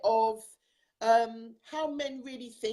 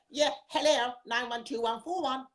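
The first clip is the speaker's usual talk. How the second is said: a lightly done posh phone greeting; telephone voice. Retold or imitated. Wife mimics husband's polite telephone voice. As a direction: imitate his polite answering voice. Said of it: "Your telephone voice".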